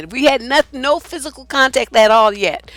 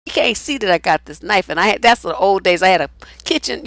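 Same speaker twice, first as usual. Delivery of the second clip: usual speaking voice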